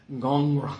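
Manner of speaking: gongra said slowly, like a low grumble; drawn-out grumbling gongra; Greek word gongra. Shown as a demonstration. Pastor shows the congregation how the Greek gongra sounds, slowly. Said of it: "The Greek word sounds like".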